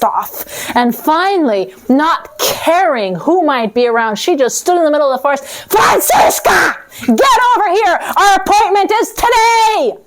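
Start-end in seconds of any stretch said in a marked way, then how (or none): 5.7-10.0 angry shout. Acted. Death yelling for Francisca in the forest, furious shout. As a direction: bellow her name in fury.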